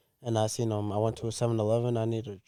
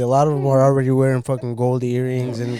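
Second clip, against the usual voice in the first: ranting loudly; 7 dB louder than usual. Real, not acted. Ranting about begging kids.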